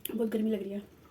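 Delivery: talking through a hot mouthful; words round burning spicy food; mouth full of hot food. Real, not acted. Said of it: "मेरा पूरा मुंह जल रहा है".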